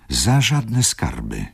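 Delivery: slow, high plaintive moan; slow plaintive groan from the baroness. A narrator's reading. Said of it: "jęknęła pani baronowa".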